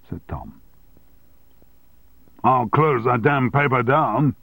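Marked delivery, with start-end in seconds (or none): 2.4-4.3 loud, angry shout at the union man. Acted. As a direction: shout it, thumping the desk. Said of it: "shouted Armstrong".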